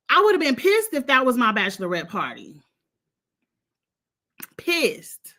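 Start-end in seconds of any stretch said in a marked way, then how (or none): 4.6-5.3 whispered aside. Real, not acted. To viewers, about the bachelorette party: a whispered "Pissed.". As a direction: whisper "Pissed." to yourself for emphasis. Echoing her own outrage.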